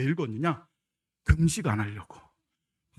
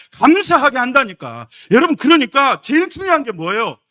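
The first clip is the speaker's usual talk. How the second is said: loud, high fervent preaching; preaching at full force; 9 semitones higher, 13 dB louder than usual. Acted. Pastor urges the congregation to give thanks, fervent loud preaching. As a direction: drive the point home to the pews.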